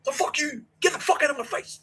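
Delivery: sustained high, strained yelling; furious arguing. Retold or imitated. Student arguing with housemaster about his name, furious. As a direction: rant back without letting up. Acted shouting match.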